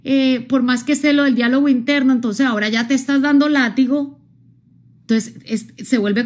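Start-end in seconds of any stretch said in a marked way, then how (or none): 0.0-4.2 complaining client. Retold or imitated. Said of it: "hay gente que dice".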